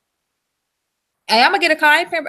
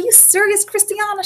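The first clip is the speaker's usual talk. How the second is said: retold surprise; 9 semitones higher than usual. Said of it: "And I said".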